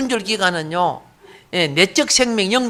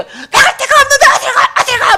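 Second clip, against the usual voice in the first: very high, loud mock wail; hammed-up high-pitched desperate protest; protesting demon; 6 dB louder than usual. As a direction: imitate a cornered demon crying out in protest. Voicing the demon refusing to leave.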